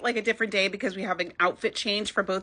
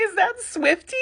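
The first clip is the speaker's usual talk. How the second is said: mock Leo; 9 semitones higher than usual. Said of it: "It's like".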